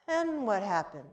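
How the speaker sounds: put-on whisper-like curious boy; hushed child question. Boy peeking from couch softly.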